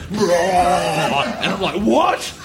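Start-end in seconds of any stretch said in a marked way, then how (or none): 1.8-2.3 much higher, laughing what; laughing at his own shock; baffled what. Retold or imitated. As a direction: squeak it out in disbelief. Baffled reaction, retold.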